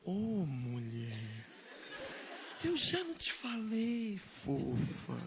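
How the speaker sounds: low, slow, sweet chiding; gentle Jesus. Acted. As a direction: coo it tenderly like to a sweetheart. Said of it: "ele não falou assim". (Jesus falando docinho)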